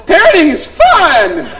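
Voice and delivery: wry irony. Real, not acted. Ironic sigh.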